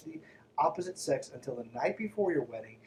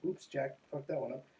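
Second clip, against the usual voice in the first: quiet sarcastic aside; 8 dB quieter than usual. Real, not acted.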